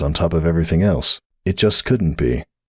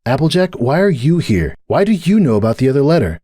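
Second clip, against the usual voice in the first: firm mare voice; 8 semitones higher than usual. A narrator's reading. Starlight taking charge.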